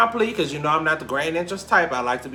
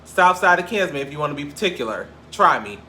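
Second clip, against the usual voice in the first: tough hometown pride; 3 semitones higher, 3 dB louder than usual. Retold or imitated. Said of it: "And I'm like".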